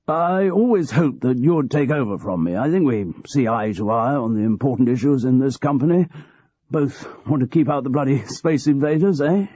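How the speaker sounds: a hint of a cosy old manager confiding; aging boss George. George's speech to Graham.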